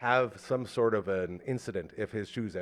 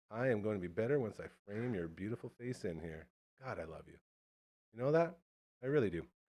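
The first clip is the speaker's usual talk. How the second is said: put-on, playfully seductive, sweet-talking tone; 7 dB quieter than usual. Greeting a returning guest on the call: mock seductive tone. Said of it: "That's very seductive".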